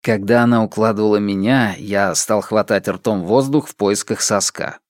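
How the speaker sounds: ordinary talk, nothing marked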